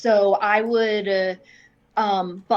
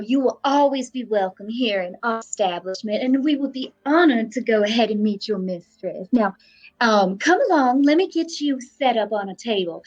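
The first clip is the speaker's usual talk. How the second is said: grandma voice. Acted. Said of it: "I'm grandmaing him really hard".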